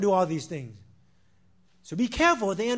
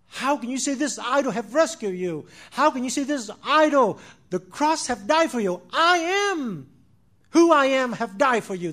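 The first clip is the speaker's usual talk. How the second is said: anguished cry; 3 semitones higher, 6 dB louder than usual. Retold or imitated. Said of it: "he cried".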